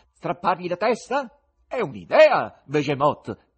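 high, loud, eager call; shouting. A narrator's reading. Fagotto shouts to his cat, loud and high. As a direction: cry it out to an accomplice. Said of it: "gridò al gatto".

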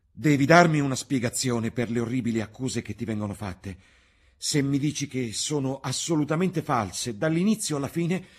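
high, loud demand; shouting. Acted. Basil demanding an explanation, still shouting. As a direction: insist at full voice.

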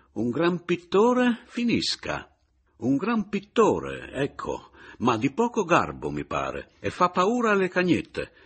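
più alto e forte, lento e tagliente all'inizio; risoluto e sprezzante. A narrator's reading. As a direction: sputa le parole con disprezzo. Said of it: "risoluto e sprezzante". (sprezzante e deciso)

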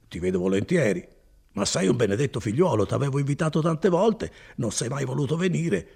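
hearty spinner welcoming his cousin, lightly voiced; Bortolo. Bortolo and Renzo talk. (Bortolo accoglie il cugino, voce appena accennata e cordiale)

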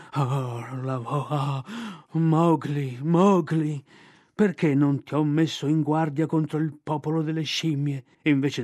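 despairing bear. Acted. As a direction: wail your misery as the bear. Bear's despairing lament.

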